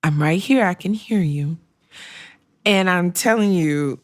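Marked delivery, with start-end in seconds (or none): 0.0-1.6 patronizing calm reassurance; mock-gentle voice for a tantruming child; like talking to a five-year-old. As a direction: soothe them like a toddler. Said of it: "talk to them like they are five years old".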